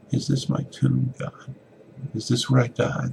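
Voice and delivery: high, anxious plea to God; frightened prayer. Acted. Evan locked in closet, fearfully asks God. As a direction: ask God as if it's the end. Beaten boy prays in closet.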